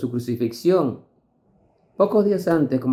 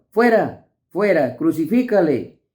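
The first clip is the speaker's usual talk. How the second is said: raised, higher mock crowd cry; crowd shout; 4 semitones higher than usual. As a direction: call it out like an angry mob, higher. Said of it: "Pero ellos gritaron".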